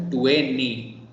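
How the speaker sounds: "twenty" with the T dropped, tweny; American twenty. Shown as a demonstration. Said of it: "if you wanna say twenty in American accent".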